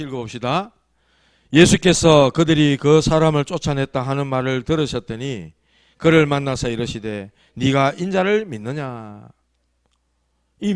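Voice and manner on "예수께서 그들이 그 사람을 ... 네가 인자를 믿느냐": measured Bible reading aloud; scripture reading. Acted. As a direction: read the verse out formally to a congregation. Reads scripture aloud to congregation.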